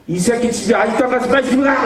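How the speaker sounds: the mask is back, yell him out the door; angry yell. Retold or imitated. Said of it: "다시 가면이 싹 씌워지면서".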